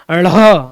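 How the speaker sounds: ढ़ flapped with an h breath; drawn-out, aspirated ढ़; aspirated sound demo. Shown as a demonstration. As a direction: push an h out after the flap in ढ़. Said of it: "एच वाला sound आएगा".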